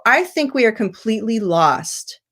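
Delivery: definite statement, emphasis on "lost" with falling pitch; emphatic falling ending. Shown as a demonstration. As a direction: land clearly on "lost", voice going down. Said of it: "that emphasis on the final word".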